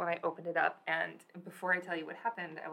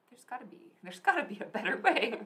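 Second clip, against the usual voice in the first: higher-pitched hammed-up plea; mock exasperation; 4 semitones higher, 5 dB louder than usual. Friend quoting a famous line to co-host, mock exasperated. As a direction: quote it like an exasperated catchphrase. Quotes a known ad-style catchphrase.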